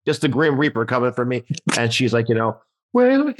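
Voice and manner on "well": very high, hammed-up weepy voice; imitating tearful widow. Widow addressing the Christmas party, mock tearful. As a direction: put on a high crying voice. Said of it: "she's crying".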